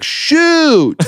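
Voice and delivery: high, gentle churchy "shoot"; the tamest swear a homeschool dad could say; mild wholesome curse. Retold or imitated. Imitating Kirk Cousins' clean cursing, high and mild. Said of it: "who's like".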